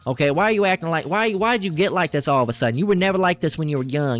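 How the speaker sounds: a touch of scolding disbelief in a parent's voice; lightly mocked parent. Parent questioning a child who changed religion, mildly mocked reproach. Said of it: "That's how they talk".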